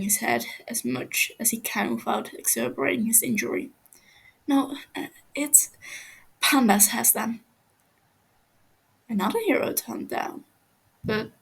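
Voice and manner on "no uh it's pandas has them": frightened prisoner begging, voice climbing; scared captive pleading. Acted. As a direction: stumble over the words, terrified of him. Captive answers.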